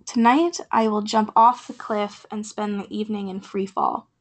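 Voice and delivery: measured spoken-word poem; poem reading. Acted. Reads her poem Derailed.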